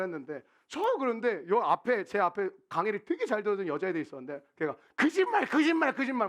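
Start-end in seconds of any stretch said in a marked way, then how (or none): 5.0-6.3 high, loud taunting chant; mock a classmate playfully; imitating a girl's teasing protest; teasing "liar". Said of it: "막 이러더라고".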